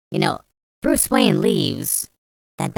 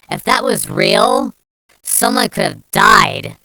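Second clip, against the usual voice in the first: louder, higher, slowed, yelled; furious shout; 3 semitones higher, 7 dB louder, slower than usual. Real, not acted. Ranting at Limbros, repeated louder.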